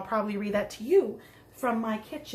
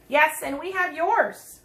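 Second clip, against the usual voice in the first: daddy's reply; 3 semitones higher, 5 dB louder, slower than usual. Acted. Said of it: "replied Trixie's daddy".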